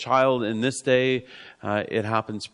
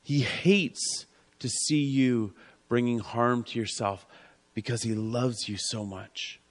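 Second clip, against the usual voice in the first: 1 tender; 4 dB quieter than usual. Acted. Tender aside on God's love.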